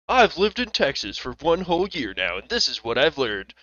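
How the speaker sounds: lightly mocking impression of a newcomer; imitated TikTok lady. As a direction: play the earnest lady with animated pitch swings. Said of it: "some lady that's like".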